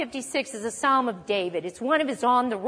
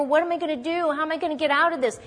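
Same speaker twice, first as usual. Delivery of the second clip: mock fretting; 4 semitones higher, much faster than usual. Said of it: "obsessing and stewing over".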